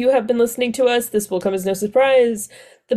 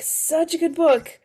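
"Such a good book" said slowly and higher, softly, sinking on "book"; wistful repeat; 7 semitones higher, 3 dB quieter, slower than usual. Real, not acted. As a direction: linger fondly on each word of "Such a good book". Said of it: "but it was such a good book".

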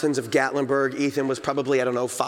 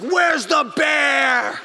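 high, loud, very slow shout; a wife marching forward looking for the bear; drawn-out call; 10 semitones higher, 6 dB louder, much slower than usual. Retold or imitated. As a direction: stretch it out calling. Wife striding toward bear.

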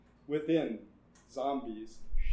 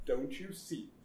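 through gritted teeth; 6 dB quieter than usual. Acted. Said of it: "said the doctor through gritted teeth".

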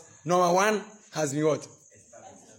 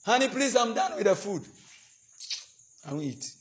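mock sulking spouse; 4 semitones higher than usual. Preacher acts sulking spouse.

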